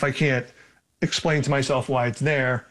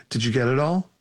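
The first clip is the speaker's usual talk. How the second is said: low creaky voice. Acted. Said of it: "In a low, creaky voice".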